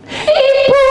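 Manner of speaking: very high, loud cry of Ibu; girl's plea. Retold or imitated. Girl greeting the counselor, high clinging cry of Ibu. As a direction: call out like a clinging young girl.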